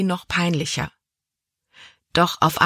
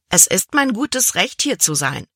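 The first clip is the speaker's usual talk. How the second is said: proud; 3 semitones higher than usual. Acted. Libby proudly tells the cabin boy she belongs here. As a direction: assert your rights with lifted chin. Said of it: "antwortete sie stolz".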